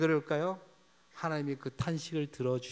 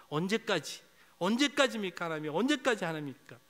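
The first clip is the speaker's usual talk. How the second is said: lament; 5 semitones higher, 3 dB louder than usual. Retold or imitated. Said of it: "하나님께 탄식하지요".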